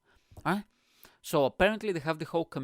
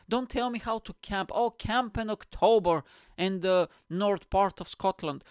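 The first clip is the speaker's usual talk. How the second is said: raised pitch, loud comic indignation; exasperated mock scolding; 5 semitones higher, 3 dB louder than usual. Comic warning nude October campers, in loud exasperated rant. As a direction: scold them loudly, pitched up.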